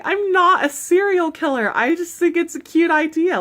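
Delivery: high, loud defensive denial; indignant protest. Retold or imitated. Denying coworker's serial killer jab.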